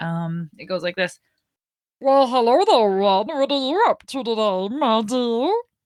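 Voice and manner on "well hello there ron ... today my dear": like a cartoon chipmunk. Speaker demonstrates a voice once done with Uncle Adam, in an Alvin and the Chipmunks voice. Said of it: "it sounds like a kind of like one of the chipmunks".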